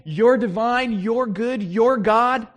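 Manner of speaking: hammed-up believer crying out his faith; mock fervent confession. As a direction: proclaim it like a sudden convert. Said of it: "And does he say".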